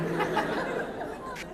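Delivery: unvoiced high giggle; breathy high laugh. Real, not acted. Laughing at sounding like a man, breathy and high. Laughing at her own low voice.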